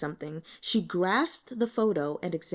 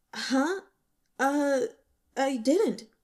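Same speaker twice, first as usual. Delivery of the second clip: startled denial; 6 semitones higher, much slower than usual. Acted. Caught off guard by question.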